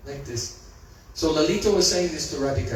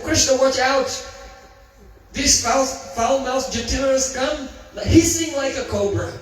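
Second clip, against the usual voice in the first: urgent warning; 5 semitones higher than usual. Acted. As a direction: sound the alarm to your friend. Friend warns Krishna of Jatila.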